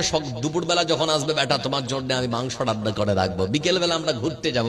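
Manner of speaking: put-on low, softened coaxing of a child; retold motherly coaxing. Mother promises meat and an outing, softly coaxing. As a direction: gently imitate a mother making promises.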